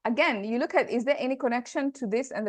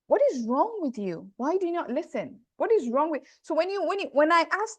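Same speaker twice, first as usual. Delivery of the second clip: higher pitched, mildly scolding questions; exasperated rebuke; 5 semitones higher than usual. Shown as a demonstration. Teacher voicing a rebuke to listeners, exasperated. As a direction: push the questions like a fed-up elder.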